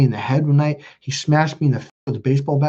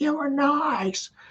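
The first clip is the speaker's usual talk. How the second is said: mock high shrieking scream, dragging out nice; 12 semitones higher, 6 dB quieter than usual. Retelling how the mother screamed at the speaker: imitating mother screaming. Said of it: "And she screamed at it".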